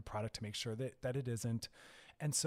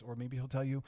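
normal talking voice

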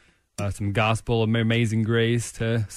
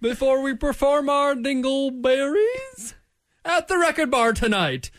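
animated mock diary reading; diary read-aloud; 12 semitones higher, 4 dB louder than usual. Reads Mad Lib diary aloud.

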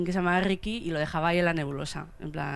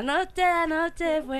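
dramatic pause; 9 semitones higher, much slower than usual. Pretend. Dramatic build-up to confession.

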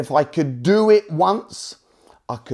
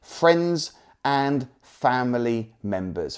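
slow and deliberate; slower than usual. Shown as a demonstration. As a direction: spell it out slowly, word by word. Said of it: "you're gonna wanna write this down".

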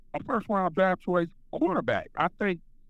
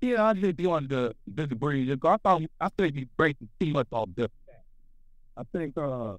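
muffled; 4 semitones lower than usual. Real, not acted. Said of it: "You sound muffled".

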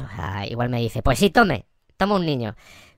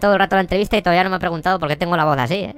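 fluty, sinister clown voice; creepy piping clown voice; Pennywise voice; faster than usual. Acted. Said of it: "Pues como aflautada, pero de mal rollo".

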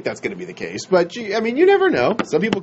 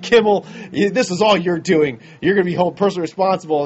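fast mock angry rant; 3 semitones higher than usual. Harrison storming off stage.

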